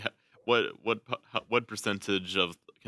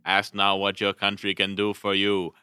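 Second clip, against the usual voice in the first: lightly voiced Boston accent, louder; JFK; 5 dB louder than usual. Shown as a demonstration. Quoting a famous speech to show a Boston accent, lightly put on. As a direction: deliver it as an oratorical Boston accent. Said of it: "think, like, J F K".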